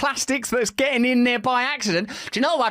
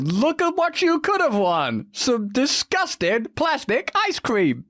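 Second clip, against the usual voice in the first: game show host. Retold or imitated. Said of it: "like it's a car on a game show".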